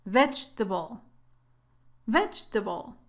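Vegetable as VEJ-tuh-bul, weak middle syllable; correct pronunciation. Shown as a demonstration. Teacher showing learners the correct way, careful pronunciation. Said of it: "La pronunciación correcta es así".

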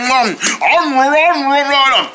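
chewing while humming; mouth full. Acted. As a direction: eat noisily, mouth full. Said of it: "Don't chew with your mouth full".

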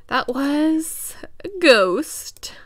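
slow eerie whisper; spooky whisper. Pretend. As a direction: breathe it like a ghost story. Spooky ghost line in game.

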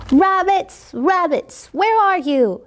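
lightly howled call; howling wolf boy. Acted. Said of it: "he howled".

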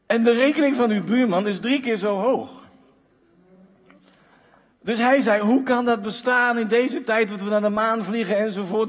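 how can this be in this day and age; indignant disbelief. Retold or imitated. Man on the phone to the energy company, indignant. Man outraged at paying neighbour's bill.

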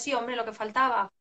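fast, sarcastic scolding; mock-irritated parent, rattled off quickly; exasperated parent. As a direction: snap at the child impatiently. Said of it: "lo que nos pasa es".

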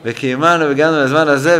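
imitating a shouted blessing, mildly; Rav Goren. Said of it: "הוא, הרב גורן צועק". (חיקוי מתון של צעקת ברכה, מתגבר לקראת הסוף)

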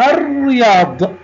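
الرياض drawn out with a doubled r and no l; silent lam. Shown as a demonstration. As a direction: say الرياض as arr-riyad. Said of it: "لم أنطق اللام".

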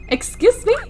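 high, rising incredulous question; indignant disbelief. Acted. Woman voicing a Sim who came home to seven dogs, indignant disbelief. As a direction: play an affronted double take. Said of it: "She's like, "What the hell?".

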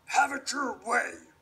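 wolf voice. Acted. Wolf threatens.

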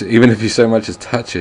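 mock angry warning; angry shout. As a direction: bark it at the villain. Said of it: "you shout in anger".

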